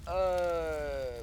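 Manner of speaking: long, hammed-up groan ending in a crash noise; pretend death groan. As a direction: play at being hit with a drawn-out cry. Figure is hit in play.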